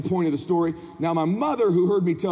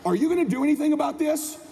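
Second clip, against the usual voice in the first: mock-outraged, emphatic, higher-pitched complaint; indignant mother; 4 semitones higher than usual. Mom turns on dad about neighbor's boy, indignant. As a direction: spell out the outrage to your husband.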